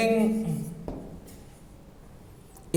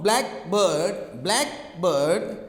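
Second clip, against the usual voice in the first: blackbird with "black" stressed, drawn out slightly; 3 semitones lower, much slower than usual. Shown as a demonstration. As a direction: hit the first syllable of blackbird. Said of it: "you stress on the black".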